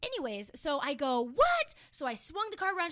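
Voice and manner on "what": high, loud startled what; shrill surprised what; shocked what. Retold or imitated. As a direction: blurt it out in disbelief. Retelling her own shocked reaction.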